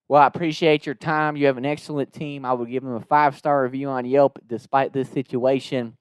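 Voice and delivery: composed Southern courtesy; polite put-on Southern caller; Southern twang. Prank caller thanks the manager before the reveal, Southern twang. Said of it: "this Southern twang".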